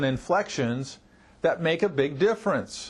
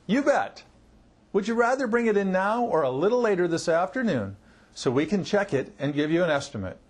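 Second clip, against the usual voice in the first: assertive; 2 semitones higher than usual. Shown as a demonstration.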